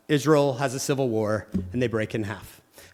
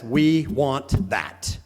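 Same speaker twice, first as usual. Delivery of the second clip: slow greedy claim; 3 semitones lower, much slower than usual. Retold or imitated. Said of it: "So Assyria says".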